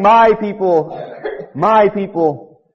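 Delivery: high and slow; fond my people. Acted. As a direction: draw it out tenderly. God's tender words.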